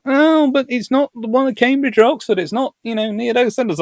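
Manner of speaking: lightly voiced high mock snob; mild mock posh objection; mocking quote. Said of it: "And people go".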